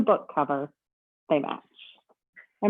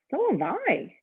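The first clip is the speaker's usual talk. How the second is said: a higher, weary grumble; grumbled; 9 semitones higher, slower than usual. Acted. Mister Snore grumbling back at the bellhop, mock grumble. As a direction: grumble it, fed up. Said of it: "grumbled Mister Snore".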